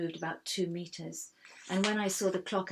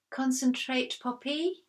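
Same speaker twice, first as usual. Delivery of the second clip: stern teacher; 6 semitones higher, 4 dB louder, slower than usual. A narrator's reading. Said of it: "came Miss Coralie's voice".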